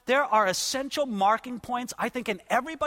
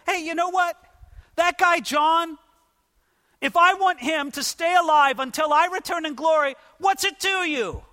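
casual Jesus paraphrase; 6 semitones higher than usual. Acted.

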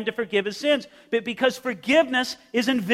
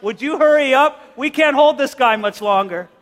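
straining friends; 5 semitones higher, 5 dB louder than usual. Acted. Friends on roof straining, calling.

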